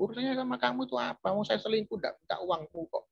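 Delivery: whiny high self-justifying rant; defiant cheating husband. Retold or imitated. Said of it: "Ngomongnya begitu". (meniru suami selingkuh membela diri, suara tinggi dan ngotot)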